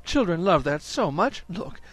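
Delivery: cooing Mrs Jones. Acted. Mrs Jones to Mrs Brown showing the doll dresses, cooing. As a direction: delight in the tiny dresses.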